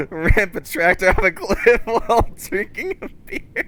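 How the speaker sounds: high, laughing hillbilly telling; mild Southern laughing; southern accent, laughing. Pretend. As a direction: laugh through a Southern tale. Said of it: "southern accent".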